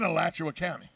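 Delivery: Alachua County with Alachua said uh-LATCH-oo-uh; county pronunciation. Shown as a demonstration. Contrasting county with town, Alachua ending in 'uh'. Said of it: "So what is it, Alachua or Alachua?".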